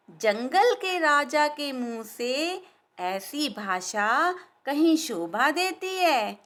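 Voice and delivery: slow, drawn-out scolding tease; mocking reproach. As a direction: wag a finger at the king, slowly. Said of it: "मक्खी ने धीरे से कहा". (धीमे धीमे ताना मारती मक्खी)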